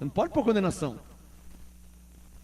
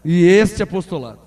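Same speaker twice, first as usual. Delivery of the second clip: proud declaration; 4 semitones lower, 5 dB louder than usual. Acted. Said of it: "Então diga com orgulho".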